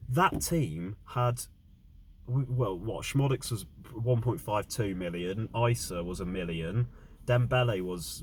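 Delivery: exasperated, loud and worked up; angry rant. Real, not acted. Fan ranting about team's loss.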